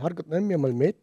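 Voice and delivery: retold exasperated demand; mildly angry. Patient demanding to be taken home, mildly angry. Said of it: "dann bin ich halt böse geworden".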